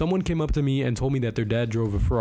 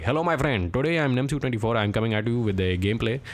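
playful put-on Indian accent as a gaming intro. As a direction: greet viewers in a jokey Indian accent. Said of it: "commentary in the Indian accent".

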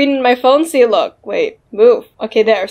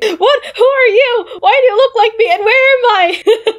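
high confused Cherry; 10 semitones higher than usual. Acted. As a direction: pitch up as a lost doll. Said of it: "the other Cherry is like".

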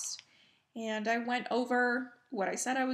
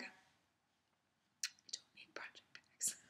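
slow, much softer whispered aside; whispered to herself; 15 dB quieter, much slower than usual. Real, not acted. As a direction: hush it out as a guilty self-reminder. Whispered self-warning about bags.

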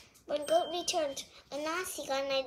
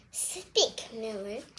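ordering; 5 semitones lower, much slower than usual. A narrator's reading. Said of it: "she ordered".

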